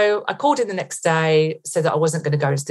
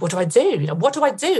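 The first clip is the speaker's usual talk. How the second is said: helpless questioning, jumping higher on the repeat; retold panic; 5 semitones higher, faster than usual. Herself wondering what to do about the fraud, retold panic. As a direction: replay being at a loss, mildly panicked.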